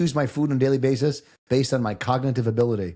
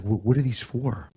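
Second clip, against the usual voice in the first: slow, hesitant mom; wary mother asking; mom's worried voice; slower than usual. Retold or imitated. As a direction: stammer out like a suspicious mom. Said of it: "my mom's like".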